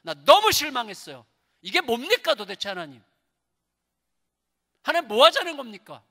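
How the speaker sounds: acted outburst of frustration; angry Elijah. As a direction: have it out with God, voice climbing. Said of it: "막 화를 내는 거예요".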